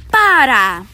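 loud storybook yell. Acted. Showing how to tell Tico to stop, yelling. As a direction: yell it out as a command. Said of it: "we have to yell".

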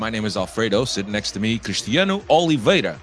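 raspy, congested voice from a cold; rough, scratchy sinus-cold voice; hoarse voice. Real, not acted. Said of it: "rasp, man".

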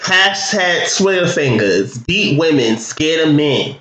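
a quick put-on Queens accent. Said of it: "gotta kinda come up with a fake Queens accent".

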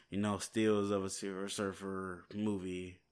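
speaking through hiccups; words broken by hiccups. Real, not acted. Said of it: "Sorry, I got the hiccups all of a sudden".

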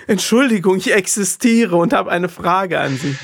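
high, meek apology; mock-timid excuse me; overly apologetic. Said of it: "das ist so schlimm eigentlich".

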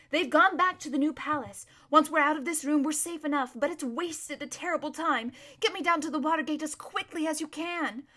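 brisk, insistent reassurance turning to orders; urgent. Acted. Trembling Erebus urging her friend to the Watergate, firm and urgent. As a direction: take charge of a panicking friend.

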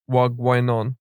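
Wagwainon said as one quick run-together word. Shown as a demonstration. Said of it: "meant to be pronounced more like".

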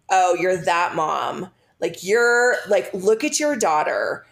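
slow, disapproving stranger, imitated; judgy. Older Starbucks woman silently judging a mom, slow and judgy. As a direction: draw it out with mild mock judgment. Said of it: "and was so judgy".

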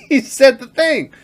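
high, loud, laughing excitement; giddy disbelief. Retold or imitated. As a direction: blurt it out in delight. Gleeful retelling of movie moment.

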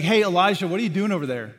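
loud, detached call from afar; distant call. Pretend. God calling out to his prophet from far off, loudly. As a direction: shout across at him, arms folded. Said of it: "The picture is not God distant somewhere".

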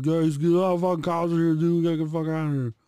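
yelling to his friends that the cops came; retold yelling. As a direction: shout the warning to get out now. Yelling at him.

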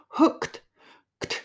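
"Hooked。 クトゥ。" with the k-t caught in the throat. Shown as a demonstration. Teacher isolating a hard ending for learners, throaty k-t stop. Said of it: "この喉にかかった感じ".

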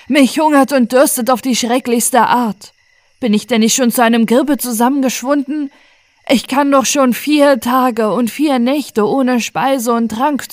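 höher und lauter, klagend flehend; jammernder junger Mann. Acted. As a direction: jammere wie ein Hungernder. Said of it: "sie klang so matt und schwach". (flehender Gefangener, höher und lauter jammernd)

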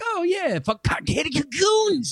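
high, slow "oh yeah, it's him"; excited recognition. Retold or imitated. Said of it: "but I'm like".

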